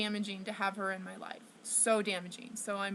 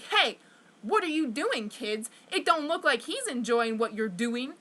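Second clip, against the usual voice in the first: retold calling out. Passer-by confronts kids picking on another, retold calling out. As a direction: call the kids out, hey first.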